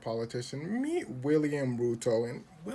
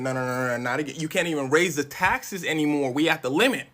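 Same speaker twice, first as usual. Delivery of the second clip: protesting crowd; 8 dB louder than usual. Acted. People protest more taxes.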